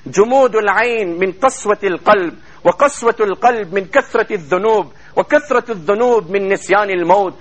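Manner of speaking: rapid chanted Arabic quotation; Arabic recitation. Acted. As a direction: rattle off the Arabic saying in one breath.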